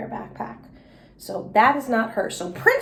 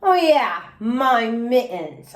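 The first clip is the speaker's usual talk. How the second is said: glum; much slower than usual. Acted. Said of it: "I said, real glum".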